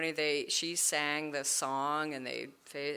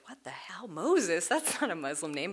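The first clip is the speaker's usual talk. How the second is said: mock whisper. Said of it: "I'm always like".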